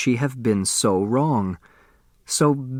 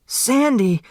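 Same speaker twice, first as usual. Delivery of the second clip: screaming a name; 12 semitones higher than usual. Acted. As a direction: scream for him as he lies on the floor. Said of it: "Turtle screamed".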